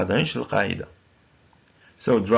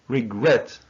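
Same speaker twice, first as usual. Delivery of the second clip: regret, stressed on GRET; careful teacher's model of re-GRET; stress on second syllable. Shown as a demonstration. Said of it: "So we say".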